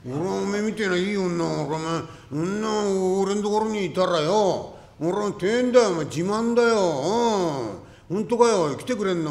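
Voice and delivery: loud, high, thrilled; overjoyed shout. Acted. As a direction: shout with delight at her offer. 男が舞い上がる. (女房になると言われて大喜びで叫ぶ)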